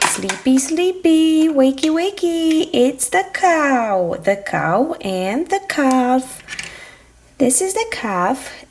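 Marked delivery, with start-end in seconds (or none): 0.1-2.7 high singsong wakey wakey; singsong wake-up. Acted. Parent waking toy cow, high singsong. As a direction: coax sleepy animals awake.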